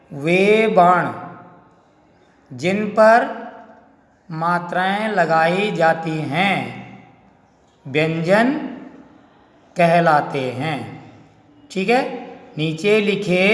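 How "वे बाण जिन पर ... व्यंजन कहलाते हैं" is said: "वे बाण" stretched very slowly, then "जिन पर मात्राएं लगाई जाती हैं" said slowly and deliberately; slow teacher's repeat of "वे बाण जिन पर मात्राएं लगाई जाती हैं"; slow emphatic repeat. Shown as a demonstration. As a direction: spell the rule out slowly so pupils catch it. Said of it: "ध्यान से आप देखेंगे, थोड़ा सा ध्यान से सुनेंगे".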